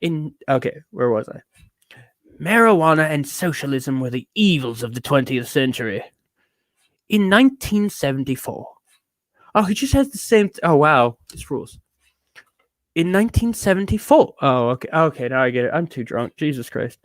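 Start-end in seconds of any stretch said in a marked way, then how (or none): 2.4-8.7 mannered British pronouncement; lightly British pompous reviewer; affected British accent. Acted. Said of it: "adopted the British accent to sound special". 12.9-14.3 higher, mannered British reading; lightly British pompous reviewer; affected British accent. Acted. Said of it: "adopted the British accent to sound special".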